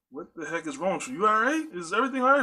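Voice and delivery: wife's voice rising high in worry; wife, alarmed. Retold or imitated. Wife asking if he's all right, worried and high. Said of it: "She's like".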